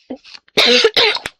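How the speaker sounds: loud sudden hiccup; a sharp involuntary hiccup. Real, not acted. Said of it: "Pardon, j'ai le hoquet".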